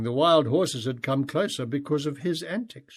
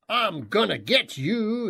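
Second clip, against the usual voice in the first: put-on a light child's playful threat; mock-call it out in fun; a hint of a toddler shouting; 7 semitones higher, 3 dB louder than usual. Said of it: "he shouted instead".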